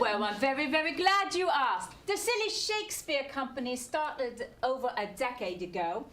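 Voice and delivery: lightly voiced comic barmaid; chatty pub barmaid character voice; Lucy Lepper barmaid voice. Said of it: "that's why I'm talking like this".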